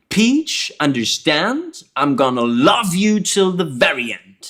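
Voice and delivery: "very" stressed over "end". Shown as a demonstration. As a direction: lean into "very" before the end. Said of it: "the very is stressed more".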